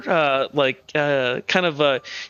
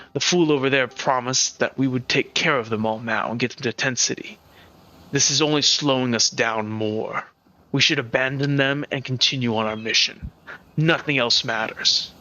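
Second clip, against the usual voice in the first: lightly voiced stern masked man, slightly lower; 4 semitones lower than usual. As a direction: lay down a cold objection, unhurried. Masked man speaks as character.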